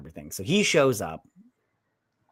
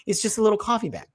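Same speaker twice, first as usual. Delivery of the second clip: high-pitched incredulous challenge; hammed-up baffled squeak; mock incredulity; 8 semitones higher, 3 dB louder than usual. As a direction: pitch it way up in comic disbelief. Repeats challenge in mock disbelief.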